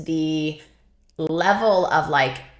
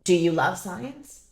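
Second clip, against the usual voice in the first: slow, gentle question from a professor; retold calm mentor; slower than usual. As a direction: ask calmly, imitating a kindly supervisor. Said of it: "she very nicely and, um, calmly".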